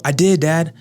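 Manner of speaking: put-on high, whiny little kid protesting; imitating his young son. Dad quoting his son's protest in the backyard, high kid voice. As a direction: squeak it up like a six-year-old insisting. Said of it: "I'm like".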